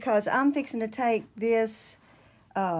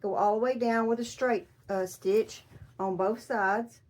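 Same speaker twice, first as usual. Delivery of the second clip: talking around a pin in the lips; pin in mouth. Real, not acted. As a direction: speak with a pin between lips. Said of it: "got a pin in my mouth".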